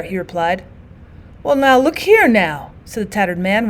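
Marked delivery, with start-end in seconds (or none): 1.4-2.7 slow, dazed, slurred rambling; idiot rambling. Acted. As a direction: ramble on half-conscious, slowly. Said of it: "rambling on in an idiot fashion".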